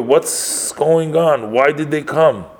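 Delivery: a mother's startled outcry at the intruders, retold; scary yell. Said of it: "she yelled out with a very scary voice".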